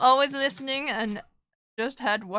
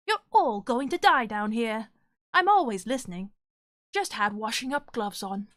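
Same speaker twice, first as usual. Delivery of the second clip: bad guy voice. Shown as a demonstration. Streamer reading scary lines for chat in a bad guy voice. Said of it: "I got a bad guy voice".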